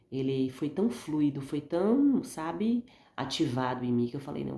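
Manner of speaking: talking through a sore, inflamed throat; swollen tonsils voice. Real, not acted. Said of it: "tô com a garganta inflamada".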